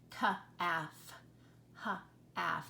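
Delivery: Ka-af and ha-af drawn out, no L; stretched model. Shown as a demonstration. Teacher modeling silent L, vowel stretched. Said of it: "That's just how we say it".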